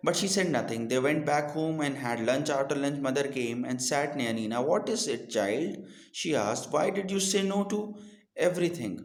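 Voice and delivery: put-on slow, clear reading to children; slow deliberate read-aloud for young learners; storybook reading. A narrator's reading. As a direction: read the story slowly and carefully. Reads English story aloud.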